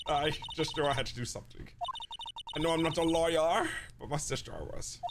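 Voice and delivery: lightly put-on cursive voice; Maya. Game girl explaining herself to Phoenix, lightly cursive voice. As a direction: bend the vowels a little, cursive style. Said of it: "introduce her cursive voice".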